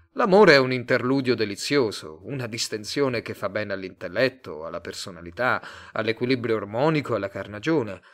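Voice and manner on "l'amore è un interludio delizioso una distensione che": usual speaking voice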